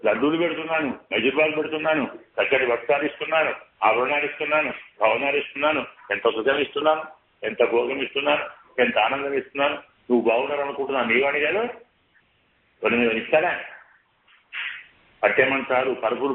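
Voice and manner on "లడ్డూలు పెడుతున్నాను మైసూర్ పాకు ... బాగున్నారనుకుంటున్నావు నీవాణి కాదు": coaxing tempter, pitched higher; lightly acted seductive mind voice; voice of the tempting mind. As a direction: sweet-talk like the scheming mind luring a soul. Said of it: "ఇవన్నీ మనస్సు మాటలే".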